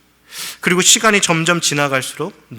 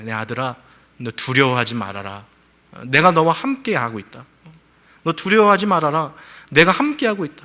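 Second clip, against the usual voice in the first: gentle voice of God. Retold or imitated. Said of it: "그런 음성을 주시는 것 같아요".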